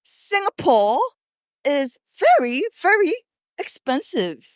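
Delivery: over-enunciated formal English; proper English. Shown as a demonstration. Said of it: "reply in the most proper English possible".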